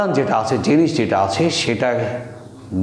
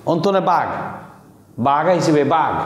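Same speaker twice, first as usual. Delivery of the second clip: Sylheti alarm call; 4 semitones higher than usual. Retold or imitated. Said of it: "এখন বলল".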